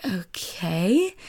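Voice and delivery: whispery, questioning okay with a rise; wary near-whisper, lifting at the end; doubtful okay. Retold or imitated. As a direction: draw it out softly, unsure. Retelling her doubtful reply to host.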